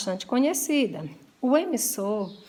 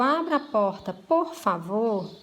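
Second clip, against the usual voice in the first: polite request. Shown as a demonstration. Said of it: "eu suavizo com a expressão "por favor".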